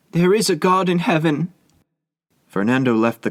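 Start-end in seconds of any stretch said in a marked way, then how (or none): 0.1-1.5 high, anguished cry to heaven; desperate cry. A narrator's reading. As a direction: cry it out nearly inarticulate. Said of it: "exclaimed in almost inarticulate accents".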